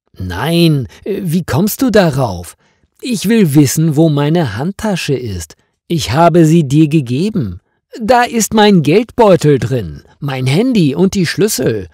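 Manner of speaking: anxious and getting worked up about her bag; agitated. Acted. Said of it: "sagt Marianne aufgeregt". (aufgeregt, höher und lauter)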